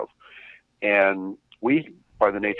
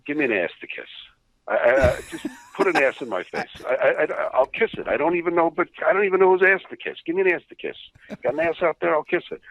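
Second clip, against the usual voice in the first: a hammed-up, raised, desperate plea; hint of desperate Victor; 8 semitones higher than usual. Victor pleading to the office for someone to please. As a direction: beg around the room for someone to suck up to. Victor walking around going.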